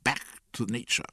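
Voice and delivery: high, squawked slogan; indignant high-pitched yelp. A narrator's reading. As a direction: cry it out as a parting shot. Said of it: "glapit oncle Vania".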